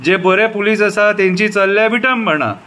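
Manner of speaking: repeated refrains with falling line ends; poem recitation. Shown as a demonstration. Citizen reciting a poem about the police, measured recitation. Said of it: "आतां कविता बरयल्या ती आयका".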